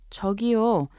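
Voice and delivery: polite request for attention. Shown as a demonstration. Teacher demonstrates politely requesting someone's attention, courteous. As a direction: say it courteously, asking to be noticed. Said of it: "to politely request someone's attention".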